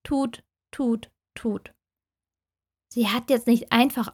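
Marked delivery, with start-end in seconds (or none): 0.0-1.7 phone busy tone. Retold or imitated. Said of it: "Dann höre ich nur noch".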